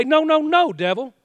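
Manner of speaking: firm, commanding rebuke of the devil; a preacher's stern command to the devil; rebuking the devil. Shown as a demonstration. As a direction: speak to the devil with authority. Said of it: "and you say".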